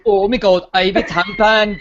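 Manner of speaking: put-on a slow, light Welsh accent; lightly voiced Welsh lad. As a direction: imitate the reality show lad in a Welsh accent. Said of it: "so that's Welsh".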